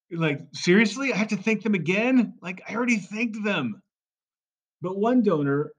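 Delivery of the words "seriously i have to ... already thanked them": exasperated. Retold or imitated. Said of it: "people are exasperated".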